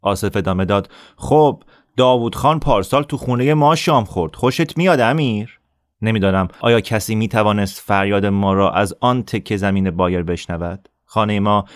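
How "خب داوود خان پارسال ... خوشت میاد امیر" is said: higher, sneering taunt; bully's boast. Acted. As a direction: needle him like a bully. Assef taunting Amir.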